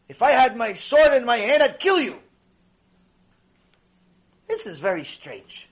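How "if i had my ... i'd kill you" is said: louder, higher furious threat; angry threat. Acted. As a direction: bark the threat at the donkey. Bilam threatens the donkey.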